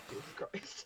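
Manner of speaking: "Jesus Christ." whispered soft and flat; deadpan punchline. Shown as a demonstration. Storyteller revealing the statue to her co-host, whispered deadpan. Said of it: "So it was literally".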